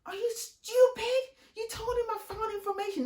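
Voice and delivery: replaying a furious yell, high-pitched; retold yell. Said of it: "yelling at her, screaming at her".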